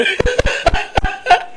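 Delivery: high, airy laugh. Real, not acted. Host laughs at banter. (tertawa geli)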